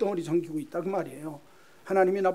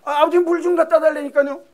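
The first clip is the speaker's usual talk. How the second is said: high, very loud nagging shout; bratty son insisting; 10 semitones higher, 11 dB louder than usual. Acted. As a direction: badger your father at full volume. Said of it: "아주 못되게 구는데".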